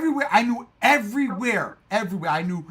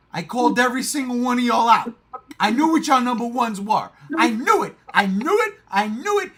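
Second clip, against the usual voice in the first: gloating; 4 semitones higher, 5 dB louder than usual. Real, not acted. Gloating he called everyone.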